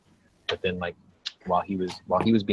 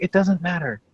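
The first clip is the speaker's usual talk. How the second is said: dismissive mock voice; 10 semitones higher, 3 dB louder than usual. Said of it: "She's like".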